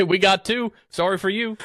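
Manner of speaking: high-pitched mock apology; mock brush-off. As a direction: turn them away in a high, comic voice. Voices Noah's crew turning monkey away.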